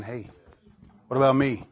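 soft, low voice of the Spirit; a gentle, low nudge from within; still small voice. Acted. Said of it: "in that still, small voice".

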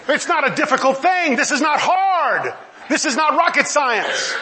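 high, insistent pulpit delivery; emphatic preaching. Real, not acted. Preacher insisting to his congregation it is obvious, emphatic. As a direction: hammer each short statement home.

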